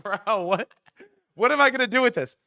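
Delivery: high, fast mock bewilderment; replayed helpless disbelief; baffled protest. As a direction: rush it out, pitch climbing. Handed cigarette, baffled.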